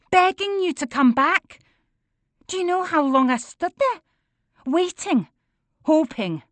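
high, loud tearful accusation; tearful pleading. A narrator's reading. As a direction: plead with raw hurt. Daughter pleads, accuses father.

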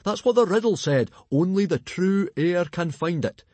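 high, loud and eager; bursting with news for his son; excited. A narrator's reading. Father tells Hiccup he'll find the treasure, excited and loud. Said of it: "said Stoic excitedly".

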